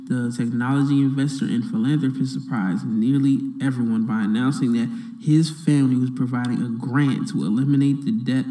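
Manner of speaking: normal talking voice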